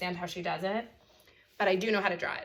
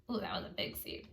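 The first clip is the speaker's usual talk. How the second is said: surprised murmur; 8 dB quieter than usual. Real, not acted. Surprised at a slip.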